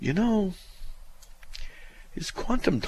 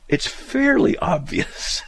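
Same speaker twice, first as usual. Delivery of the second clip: slow, breathy sarcastic drawl; mock repetition; 4 dB louder, slower than usual. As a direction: drag it out, mocking the phrase. Mocking the letter writer's phrase.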